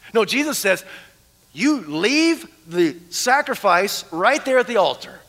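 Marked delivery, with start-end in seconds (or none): 1.5-5.2 slow, deliberate command; measured out word by word, as an order; firm command. Retold or imitated. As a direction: spell out the instruction slowly and firmly. Voices Jesus giving a firm command.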